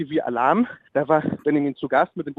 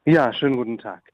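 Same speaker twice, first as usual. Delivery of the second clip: lower, disguised caller voice; disguised deep voice; 5 semitones lower than usual. Pretend. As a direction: fake a deeper voice to hide who you are. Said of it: "Ich habe mir extra die Stimme verstellt".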